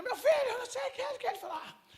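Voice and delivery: put-on high, laughing little old lady. Pastor imitating the old lady caught in the brawl, high and laughing. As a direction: voice the frightened senhorinha with a laugh.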